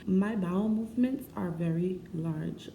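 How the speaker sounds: mock-proper, carefully enunciated; measured, mock-formal politeness; prim and proper. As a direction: put on a prim, proper delivery. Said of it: "let me be prim and proper".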